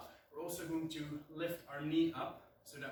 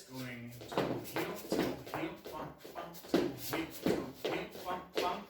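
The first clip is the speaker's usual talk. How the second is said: punchy louder "toe heel" counts; emphasized toe heel; 3 dB louder than usual. Shown as a demonstration. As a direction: hit each "toe heel" crisply. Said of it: "you can emphasize this".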